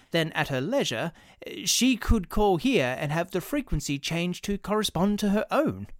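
a nervous clerk rushing his pitch; fussy clerk voice. Acted. Clerk proposes.

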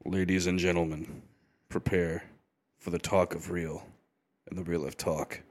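a hint of an announcer. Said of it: "Have you ever heard a voice like this?".

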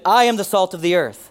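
firm, emphatic declaration; with conviction. Shown as a demonstration. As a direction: say it like you believe it. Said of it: "say it like you believe it".

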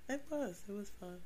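stuffy, nasal allergy voice. Real, not acted. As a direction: talk through a blocked nose. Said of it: "Sorry for my, um, nasally voice".

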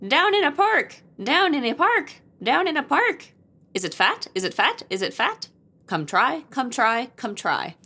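high, loud chanting witch. Acted. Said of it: "we're gonna say it like witches".

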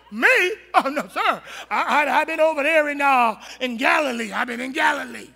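a hint of a guilty man laughing his way out; nervous laughing denial. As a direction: laugh it off to dodge the question. Peter lying nervously, laughing.

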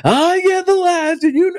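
slow, high mock lawyer-like insistence; litigious. Imitating his wife citing their rule in slow, high insistence. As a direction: lay down the agreement point by point. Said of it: "it was immediately litigious".

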